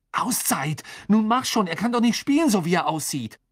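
high, loud demand for a time-out; indignant calling. A narrator's reading. Ron demands a break for injured Krumm, indignant shout. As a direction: shout impatiently down at the referee.

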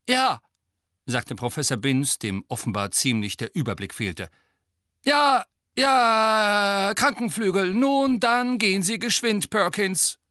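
put-on high, loud, absent-minded old voice; doddering ghost professor. A narrator's reading. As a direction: wave him off like a muddled old teacher. Confused ghost professor answers. (verwirrter alter Geist, hoch und laut)

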